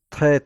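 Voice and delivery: "ت" said heavy, whole tongue on the upper palate; thick palatal closure on the t of "ت"; emphatic T. Shown as a demonstration. Teacher contrasting it with tongue-tip T, heavy "ت". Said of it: "زبان پوره در قسمت کام بالا".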